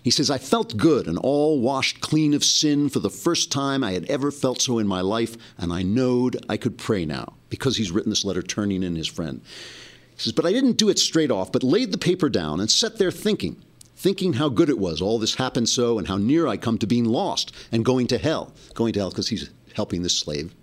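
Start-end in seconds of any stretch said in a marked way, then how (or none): 0.3-7.3 lightly voiced rustic boy narrator; lightly acted storybook reading in a country boy's accent; Huckleberry Finn accent. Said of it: "written in Huckleberry Finn's accent". 10.3-18.6 higher, lightly acted rustic boy narrator; hint of a country boy telling his story; Huckleberry Finn accent. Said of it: "written in Huckleberry Finn's accent".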